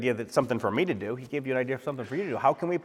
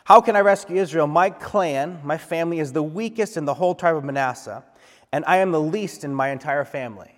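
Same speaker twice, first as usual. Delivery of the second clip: louder, higher protesting excuse; pleading Gideon; 3 semitones higher, 6 dB louder than usual. Acted. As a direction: push back against the calling, loud and pleading. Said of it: "Gideon replied".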